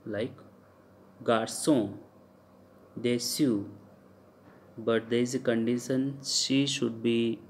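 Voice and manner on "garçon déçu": "garçon, déçu" with ç said as s; soft c as s. Shown as a demonstration. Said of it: "it sounds like s".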